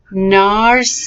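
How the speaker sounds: "Narcissus" joined up, still carefully in syllables. Shown as a demonstration. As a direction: run "Narcissus" together with only slight breaks. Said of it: "let's go a little bit more quickly".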